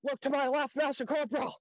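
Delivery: high, loud strained reply barely keeping a straight face; fighting off a laugh while answering; holding in laughter. Retold or imitated. Private answering the Master Corporal in ranks, stifled laughter. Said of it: "I'm like".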